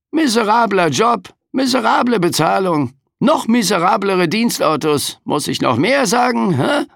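high, sarcastic, weary Reaper; overworked Death complaining; grumpy Grim Reaper. A narrator's reading. Death complains about job. (mürrischer Sensenmann)

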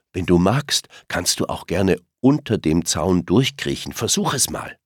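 höher und lauter, munter aufmunternd; fröhlich gerufen. Acted. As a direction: Sorgen mit Fröhlichkeit überspielen. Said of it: "ruft so fröhlich". (Mama Reh ruft dem gestürzten Kind fröhlich zu)

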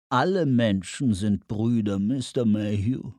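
fuchshafte, ölige Anruferstimme; ölig, fies. Acted. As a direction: sprich ölig und mit gedehnten Worten. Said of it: "Der Tonfall war ölig, fies, fuchshaft". (öliger, fuchshafter Tonfall)

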